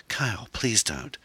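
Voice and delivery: high, slow woman's plea; helpless high-pitched appeal; pleading. Acted. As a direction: beg him, drawing the words out. Erin begs Kyle.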